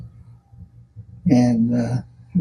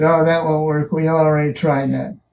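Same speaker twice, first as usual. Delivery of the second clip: retold brush-off, only slightly raised; dismissive objection; 2 semitones higher than usual. Reluctant engineer shoots down the team's new idea, dismissive. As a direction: wave the idea away matter-of-factly. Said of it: "didn't want to do anything".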